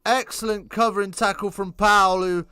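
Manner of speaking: building to a try. Real, not acted. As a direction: ride the break to the line. Ireland break for a try.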